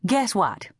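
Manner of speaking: bright, high, eager "Guess what?"; excited. A narrator's reading. Rainey calls her cousin bursting with news, excited. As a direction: burst with news you can't hold in. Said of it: "who sounded excited".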